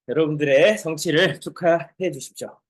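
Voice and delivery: ordinary delivery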